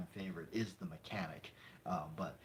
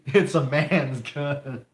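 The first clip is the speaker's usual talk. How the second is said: slow tough-guy movie line; 4 semitones higher, 10 dB louder, much slower than usual. Retold or imitated. Fan quoting a movie cop, slow and tough. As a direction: drag it out like a hard-boiled cop.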